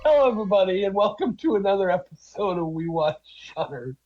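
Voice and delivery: muffled tin-can phone audio. Real, not acted. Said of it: "It sounds like I'm on an old telephone".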